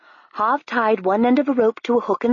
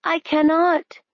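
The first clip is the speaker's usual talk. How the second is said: Harve; 9 semitones higher, slower than usual. A narrator's reading. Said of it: "he said".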